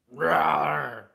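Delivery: loud growling roar; mock roar. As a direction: roar like a barking dog. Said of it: "The dog's like".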